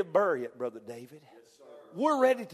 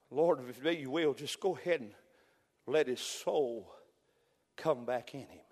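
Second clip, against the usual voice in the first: soft slow prayer; 3 semitones lower, 4 dB quieter than usual. Acted. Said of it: "Elijah's praying".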